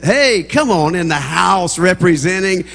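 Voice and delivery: calling out. Real, not acted. Preacher hails students in the congregation.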